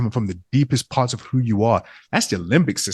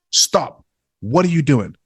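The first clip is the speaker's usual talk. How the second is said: imitating a friend's firm, raised-pitch scolding; serious intervention; 5 semitones higher, slower than usual. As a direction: pull them up short, higher than usual. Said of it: "you seriously will say that".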